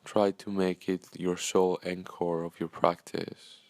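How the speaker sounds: calm, unhurried meditation guide with long pauses; measured, soothing guidance, leaving space after each phrase; guided meditation. Acted. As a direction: gently lead listeners into breathing and stillness.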